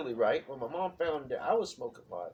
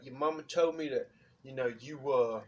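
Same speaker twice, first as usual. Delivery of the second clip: lightly voiced dad, halting; a touch of a distraught father; imitating dad's voice. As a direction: haltingly mimic dad confronting his son. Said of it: "my dad talked just like this".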